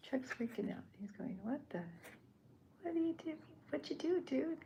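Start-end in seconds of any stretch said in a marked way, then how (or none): 0.1-0.8 lively, raised repeat after a laugh; amused retelling. Shown as a demonstration. 1.4-4.6 hammed-up high-pitched outrage from Chuck; freaking out.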